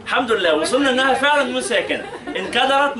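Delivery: laughing through the words, voice lifted; relieved chuckle at last; happy laughing teacher; laughing relief. Real, not acted. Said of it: "teacher relieved after long search".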